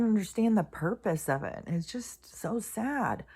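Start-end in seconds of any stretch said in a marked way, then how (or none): 1.7-3.2 whispered, slow, heavy-hearted; sad whisper. Real, not acted. Vlogger moved by a grieving girl's video, sad whisper. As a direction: breathe it out as a pained whisper.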